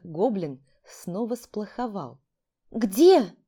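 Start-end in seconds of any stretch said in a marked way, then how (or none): 2.7-3.4 a sharp, loud, curious "where?"; curious exclamation. Acted. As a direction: burst out with curiosity. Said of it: "с любопытством воскликнула я".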